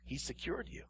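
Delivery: breathy hushed whisper. Real, not acted. Preacher whispering assurance to the congregation. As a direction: drop to a whisper to reassure.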